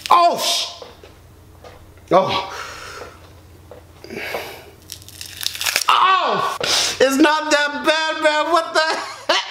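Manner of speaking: wincing through it, slow on "it's not that bad"; tensed up and bracing against the sting; real pain while peeling. Real, not acted. Peeling painful mask off.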